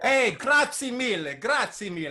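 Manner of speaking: big loud grazie mille; loud Italian thanks. Acted. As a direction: call out the thanks, hammed up. Joking Italian reply, loud.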